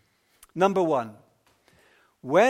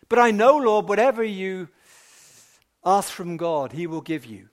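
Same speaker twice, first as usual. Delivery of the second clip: fervent faith; 5 dB louder than usual. Acted. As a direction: declare it boldly to the Lord. Martha's statement of faith.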